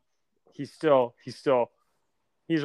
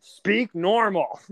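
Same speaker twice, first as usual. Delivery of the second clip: slow mock scolding; 5 semitones higher, much slower than usual. Echoing the rebels' scolding, mocking.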